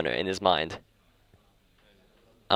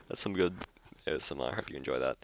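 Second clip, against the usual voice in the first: low, soft joke ASMR aside; mock ASMR; 5 semitones lower, 10 dB quieter, faster than usual. Vlogger presents saliva cleaning to viewers, mock ASMR.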